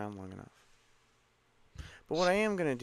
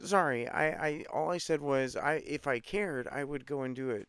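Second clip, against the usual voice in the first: to someone hard of hearing; 6 dB louder than usual. Real, not acted. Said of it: "Can you just speak louder, please?".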